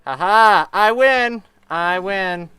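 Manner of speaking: loud gleeful laugh of victory; triumphant laugh. Real, not acted. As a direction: laugh and crow that you won. Escaping the Nether at last.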